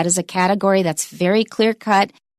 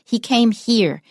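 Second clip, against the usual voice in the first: "here" given full stress, falling at the end; 3 semitones higher, slower than usual. Shown as a demonstration. Teacher showing learners the place word matters, stressed "here". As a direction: model the sentence with "here" clearly stressed. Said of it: "so we'll stress it".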